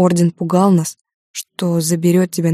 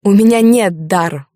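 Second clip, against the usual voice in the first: mocking laugh; 3 semitones higher, 6 dB louder than usual. A narrator's reading. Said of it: "усмехнулась я ей в лицо".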